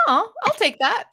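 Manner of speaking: very high, playful little mouse voice; cartoon mouse. Told they sound like a mouse, plays cartoon mouse. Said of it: "a little cartoon character of a mouse".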